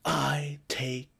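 whispered breathy fake-sincere apology; Breaking Bad actor apologising, mock-solemn whisper. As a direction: play it falsely earnest. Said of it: "he's like".

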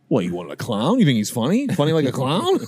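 mob guy voice. Pretend. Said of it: "mob voice".

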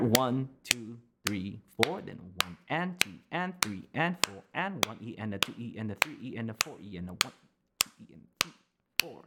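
quick, soft count of sixteenths; fast counting. Shown as a demonstration. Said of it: "still there".

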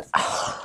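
soft breathy mock sob-sigh; imitated crying sigh. Showing viewers the crying girl's gif, a soft mock sigh. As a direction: sigh like the weepy little girl. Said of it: "this little girl going".

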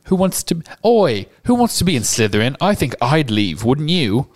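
put-on loud, swaggering kid voice; cocky schoolboy. Schoolboy scoffing at the other house, cocky boy voice.

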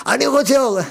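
high-pitched pretend yell; half-earnest shout into the dark; mock crying out. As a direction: call out in a high, playful plea. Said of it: "צעק עד מחרתיים".

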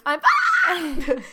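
mock squeal through laughter; laughing squeal. Friend laughingly imitates the squealed fine. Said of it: "sounded as if I had squealed it".

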